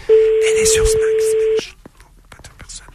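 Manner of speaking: hushed secret with a shush; whispering. Real, not acted. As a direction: keep it down, whisper it.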